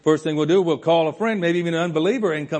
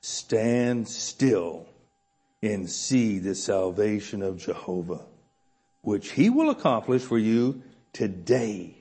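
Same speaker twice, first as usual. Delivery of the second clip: calm reassurance; 3 semitones lower, slower than usual. Retold or imitated. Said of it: "Moses said to the people".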